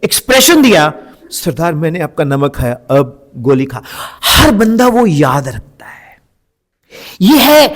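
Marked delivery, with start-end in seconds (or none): 1.3-3.8 low, fearful plea to the boss; frightened film henchman. Shown as a demonstration. Trainer demonstrating expression in a film dialogue, frightened henchman. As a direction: act out the scared henchman's famous line. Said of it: "अटक के डर के expression दिया".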